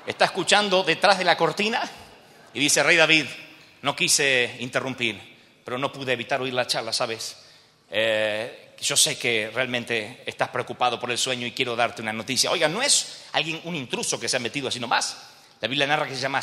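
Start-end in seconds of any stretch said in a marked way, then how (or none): 2.8-12.5 lightly voiced servant, low and halting; hesitant servant. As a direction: interrupt the king apologetically, pitch dropped. Servant hesitantly breaks news to king. (sirviente titubeante, voz algo más grave)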